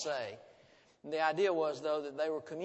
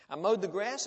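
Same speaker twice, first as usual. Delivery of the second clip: proud announcement; 4 semitones higher, 7 dB louder than usual. A narrator's reading. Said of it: "the tall boy said".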